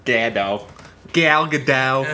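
"Gadot" as "GAD-oh", drawn out; mock Midwestern vowels. Co-host playing with the wrong name, "Gadot" drawn out as "GAD-oh". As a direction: stretch "Gal Gadot" with short "cat" vowels.

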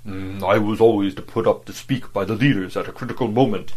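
self-satisfied. Acted. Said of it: "declared with obvious satisfaction".

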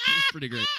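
high, loud boastful line; hammed-up braggart; mock show-off voice. Continues the camera bit.

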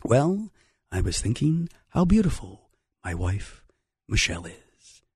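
low, soft droning Obama impression; a lightly voiced dull Obama; mock Obama. Host mocking Obama's speech, low and droning. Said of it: "four years of".

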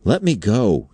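high-pitched panicky plea; frightened denial. A narrator's reading. Undersecretary struggling in his captor's grasp, frightened. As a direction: protest as if held fast. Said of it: "stammered out an incoherent denial".

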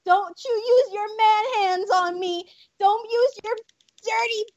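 hammed-up outraged high protest; melodramatic lady. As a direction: play the offended lady, high and slow.

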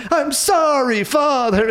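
high, whining overacted apology; Jared Leto. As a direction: wail it in a hammed-up mock accent. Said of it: "overacting, yelling at Jared Leto and him".

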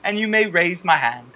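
high, mock British wrestler impression; British accent. Co-host imitating Becky taunting Charlotte, British accent. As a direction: imitate her with an accidental British lilt. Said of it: "a British accent".

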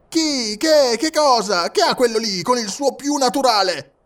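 high, loud, heckling questions; shouted from all sides. A narrator's reading. Passengers shouting down Passepartout, high incredulous cries. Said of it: "si gridò da tutte le parti".

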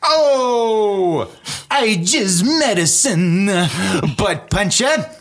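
put-on slow, intense Boston accent; heavy Boston accent, high and dragged. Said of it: "I'll do the Boston accent with it".

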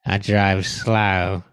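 very slow, mock Aussie driver; very slow mock Australian. Friend playing the slow driver, very slow mock Aussie. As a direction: crawl through it like an Aussie driver. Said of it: "Let me try it".

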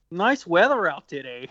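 mock Michigan accent, slightly exaggerated; attempted Michigan accent. Bandmate imitating a Michigan man in shorts outdoors, attempted local accent. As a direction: put on an amateurish Michigan accent. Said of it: "how to do the accent".

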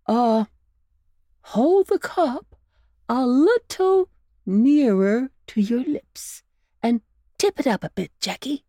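lightly voiced coaxing uncle; coaxing old rabbit. A narrator's reading. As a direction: win the pup over gently. Uncle Wiggily instructing.

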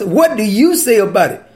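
a mild mocking challenge; sarcastic question. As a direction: toss it back as a smug trap. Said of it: "You hear the sarcasm in their voice?".

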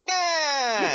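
high loud cartoon shriek; Skeletor scream. Dying Skeletor shrieks reaching toward Evelyn. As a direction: let out the cartoon villain shriek. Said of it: "reaches out towards her with a shaky hand and goes".

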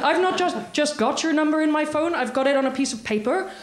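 imitated Northern Irish caller; Northern Irish accent. Caller explaining he has the number on paper, Northern Irish accent. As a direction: put on a Northern Irish accent to argue the point. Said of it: "the accent is very difficult to achieve".

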